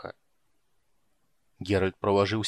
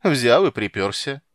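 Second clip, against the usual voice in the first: slow sneer; 7 dB louder than usual. A narrator's reading. Rude guardswoman mocks Geralt.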